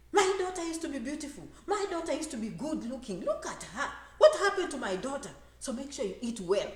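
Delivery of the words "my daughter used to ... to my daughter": mock lamenting mother. Mother lamenting daughter's looks.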